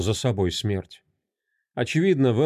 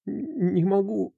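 higher, slow, halting and tearful; tearful refusal; 8 semitones higher, 3 dB quieter than usual. Acted. A weeping wife refuses the inspector, halting and tearful. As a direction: stumble out a broken no.

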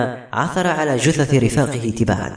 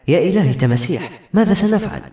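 mild cry of fright, rising high at the end; frightened cry; 7 semitones higher than usual. A narrator's reading. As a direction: let alarm lift the pitch, without shouting. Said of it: "اقشعر بدنها وصاحت". (صيحة خوف خفيفة)

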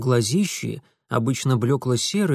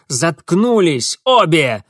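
loud, slow bark; barked order; 3 semitones higher, 7 dB louder, slower than usual. A narrator's reading. Mitya barking at both girls to shut up. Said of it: "гаркнул Митя".

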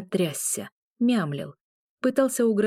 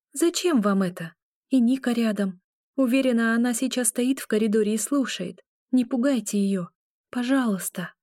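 pleading; 4 semitones higher than usual. Acted. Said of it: "добавила умоляюще".

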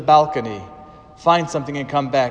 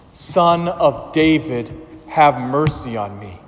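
slow, drawn-out plea; crying out all the more. Acted. Blind man pleading again to Jesus, slow and drawn out. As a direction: stretch each word of the plea. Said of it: "But he cried out all the more".

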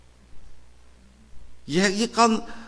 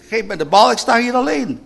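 retold shout; 8 semitones higher, 7 dB louder than usual. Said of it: "En dan schreeuw ik".

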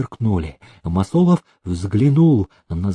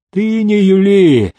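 slow, higher, menacing warning; threatening; 8 semitones higher, 5 dB louder, slower than usual. A narrator's reading. Prokofiy threatens the fawning steward, slow and menacing. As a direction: lean in and threaten him. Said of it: "пригрозил Прокофий".

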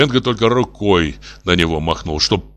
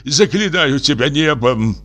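slow, higher solemn entreaty; imploring; 7 semitones higher, slower than usual. A narrator's reading. Professor dictates a plea to the wife, imploring. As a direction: beseech with drawn-out drama. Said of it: "опять смолился профессор".

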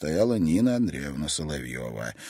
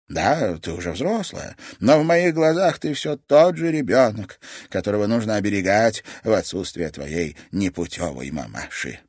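put-on caring old woman; tender grandmother; 4 dB louder than usual. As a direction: soothe her like a child. Grandmother softly explains.

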